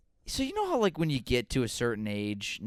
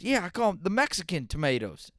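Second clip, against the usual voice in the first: imitating grandpa; 8 semitones higher, 4 dB louder than usual. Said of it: "He goes".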